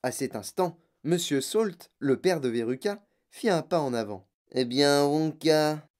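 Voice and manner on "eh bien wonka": mildly pompous father; presumptuous. A narrator's reading. Rich father with wallet out to Wonka, presumptuous. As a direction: address him with self-importance. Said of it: "dit-il présomptueusement".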